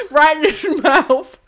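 loud, slow, high with "mouth" as "mouf". Shown as a demonstration. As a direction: end "mouth" on an F sound. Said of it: "my T Hs are definitely gonna turn into Fs".

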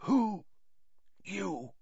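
high, strained, halting whisper; weak, broken question. A narrator's reading. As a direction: struggle out the words, fading away. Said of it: "he whispered".

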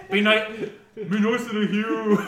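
loud, high, slow mock-Celtic call; hammed-up, drawn-out bad Celtic accent; shitty Celtic accent. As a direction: call through the veil in a terrible Celtic accent. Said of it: "in a really shitty Celtic accent".

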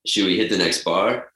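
overdone creaky bro voice; exaggerated vocal fry. Shown as a demonstration. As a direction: lay on the creak heavily. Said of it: "that was too much".

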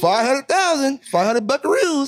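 high, slow goofy white guy. Pretend. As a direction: stretch it out like a cheesy white dude.

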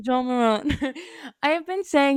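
playful French accent on Ja Morant; mock French accent. Shown as a demonstration. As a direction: say Ja Morant as "Zhahn Moran", French-style, amused.

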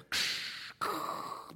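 imitated smash of toy Hulk hands; imitated crash noise. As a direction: toy crash sound effect. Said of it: "made noises and crashes".

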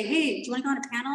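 retold chirpy invite, quick and casual; upbeat invitation. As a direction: lightly imitate an eager friend inviting someone along. Retold friend inviting her.

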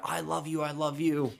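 high-voiced imitation of a smitten man; hammed-up high adoration; mock lovesick declaration. Acts his lovesick answer to her.

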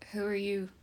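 whispered, level and calm; calm question. Acted. Pippa quietly questions the stranger, hushed and calm. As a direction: ask it softly, giving nothing away. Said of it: "she asked calmly".

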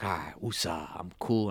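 soft, low self-soothing; calming down. Retold or imitated. Winding down alone after ending the call, acted-out calm. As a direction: talk yourself down quietly. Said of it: "like, I relax".

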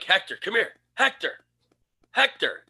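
high, coaxing dog call; light, high calling voice. Retold or imitated. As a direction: pitch the name up to summon a pet. Calling the dog inside house.

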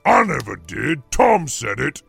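very loud denial; defensive troll. Acted. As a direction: shift the blame loudly as a troll. Troll denies and blames.

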